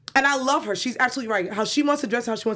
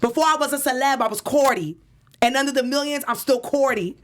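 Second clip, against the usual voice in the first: higher, mildly raised mock rant; imitated yelling, pitched up; a rapper yelling; 4 semitones higher than usual. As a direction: declare it proudly in a New York accent. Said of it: "So this is just me yelling".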